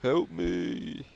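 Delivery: hammed-up shouts of help; mock cry for help. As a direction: call out for help like a helpless victim.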